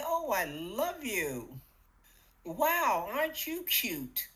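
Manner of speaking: slow, fond, playful self-praise; loving mirror talk. Pretend. Talking to yourself in the mirror, fond and playful. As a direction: coo at yourself, pleased and light. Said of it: "look at yourself in the mirror and say".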